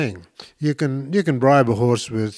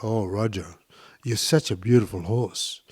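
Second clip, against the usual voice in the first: lower, softly affectionate praise; outward affection; 3 semitones lower, 3 dB quieter than usual. Shown as a demonstration. Showing how to praise Roger the horse, affectionately. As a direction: sweet-talk a horse gently. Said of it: "outward affection".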